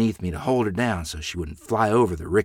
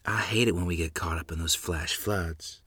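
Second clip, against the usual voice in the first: quiet to herself; 4 semitones lower, 8 dB quieter than usual. A narrator's reading. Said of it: "Lottie whispered almost to herself".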